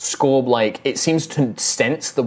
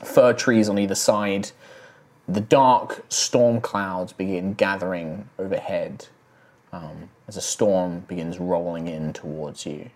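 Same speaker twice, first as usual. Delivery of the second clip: game master narration. Acted. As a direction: paint the road and storm for the players. Game master sets the scene.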